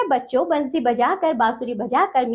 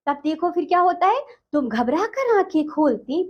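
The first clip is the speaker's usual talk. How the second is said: poem recitation. Acted. Teacher recites poem stanza.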